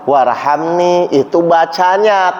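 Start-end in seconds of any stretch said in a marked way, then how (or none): 0.0-1.1 slow, heartfelt pleading to God; slow, humble supplication; earnest prayer. Shown as a demonstration. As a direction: pray it slowly as a real plea. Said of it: "Tapi rasanya kita sedang berdoa".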